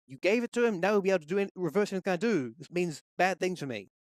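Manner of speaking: a touch of protest, settling toward the end; lightly acted grumbling wizard; complaining. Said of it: "gonna complain and say".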